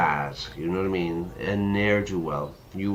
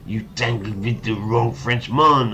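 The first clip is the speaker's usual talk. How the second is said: exclaimed in triumph. Acted. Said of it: "I explained in triumph".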